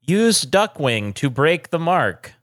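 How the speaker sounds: slow robotic announcer voice; automated voice. Retold or imitated. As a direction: read it like a flat automated prompt. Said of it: "The automated voice thing".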